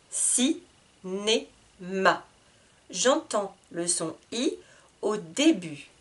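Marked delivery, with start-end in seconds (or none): 0.1-0.6 "Cinéma" as Ci... né... ma, clear pauses; split into syllables. Shown as a demonstration. Teacher cutting the word in three, "Cinéma" with pauses. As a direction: cut "Cinéma" into three separate beats. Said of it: "Je coupe le mot en trois".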